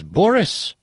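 lightly voiced Russian wife; a touch of comic Russian; mixed-up Russian accent. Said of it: "this Russian accent's gonna sound like".

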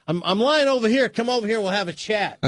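high-pitched chatty dog voice; talking dog. Acted. Dog inviting the buyer over to chat, high-pitched. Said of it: "Duke looks over at the prospective new owner and goes".

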